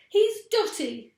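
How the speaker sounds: high, loud, slow mocking; gleeful cry. A narrator's reading. Animals jeering about Mugglewump, high mocking cry. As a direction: jeer it out with glee. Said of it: "they cried".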